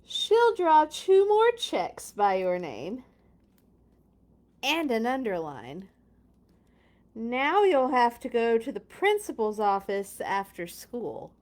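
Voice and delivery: emphatic read, loud start settling down; dramatic storybook narration. A narrator's reading. Reader telling children of principal's office, emphatic storybook narration. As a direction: announce each punishment with weight. Reads picture book aloud.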